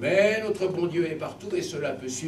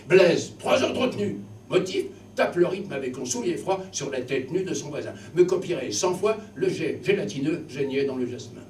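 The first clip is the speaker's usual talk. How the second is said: stern teacher. Acted. Teacher handing Blaise detention, sternly. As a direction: bark out the detention.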